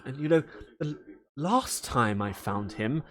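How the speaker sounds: lightly voiced fretting mother; worried mother. Valera frets about her son, mild fretting. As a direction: sigh over a wayward son. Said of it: "you hear Valera go".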